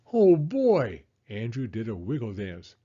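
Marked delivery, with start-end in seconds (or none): 0.1-1.0 high, loud happy whoop; excited cheer. Acted. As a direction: cheer with delight. Child cheers about the baby.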